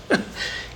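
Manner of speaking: a teary half laugh that catches in the throat; real emotion slipping out as a laugh; choked-up laugh. Real, not acted. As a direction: laugh breaking on a held-back sob. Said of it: "getting all choked up here".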